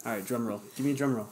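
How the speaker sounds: hushed unvoiced call for a drum roll; whisper. Real, not acted. Host whispers for a drum roll before the giveaway draw. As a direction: say it on breath only, building suspense.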